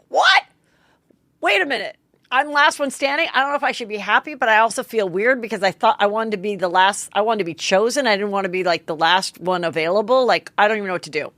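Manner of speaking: playing the confused last girl; mock Rachel. Rachel voiced in retold recap.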